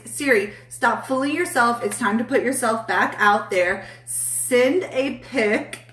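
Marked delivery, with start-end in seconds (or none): 4.0-5.8 slow teasing suggestion, rising high on "something sexy"; playful tease. Acted. Teasing a viewer to send a sexy pic, slow and cheeky. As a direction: draw it out like a cheeky dare.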